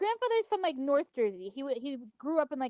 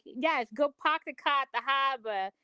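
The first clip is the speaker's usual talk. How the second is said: put-on Boston accent. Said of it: "he actually talked like that".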